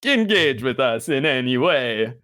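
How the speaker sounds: a touch of the Sesame Street Count; lightly voiced vampire count reading the plug. Host plugging the show, lightly doing the Count. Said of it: "like, Count Dracula, like, Sesame Street style".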